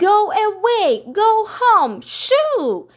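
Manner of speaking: high, loud, angry shooing. Acted. Miss Lark angrily shoos the common dog, high and loud. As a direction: drive the dog off, furious. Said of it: "in an angry voice".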